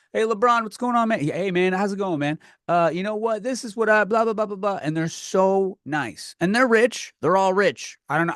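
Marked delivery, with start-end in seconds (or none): 0.1-4.8 chummy athlete voice. Retold or imitated. Mocking friendly basketball players.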